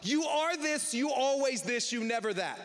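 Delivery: accusing jabs, stress on always and never; a hint of a heated quarrel; mock slander rant. Shown as a demonstration. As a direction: spit out the charges like an argument. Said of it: "Here is what slander sounds like".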